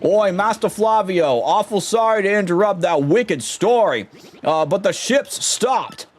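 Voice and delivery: lightly voiced gruff sailor; a hint of a rough deckhand. Sailor reporting to Flavio, lightly voiced rough deckhand. Voicing sailor in Paper Mario.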